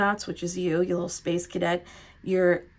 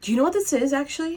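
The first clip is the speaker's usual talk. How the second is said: full-on yelling, high and raised; 8 semitones higher than usual. Tarot reader asking Pisces viewers about a card pull: yelling. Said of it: "Sorry for yelling".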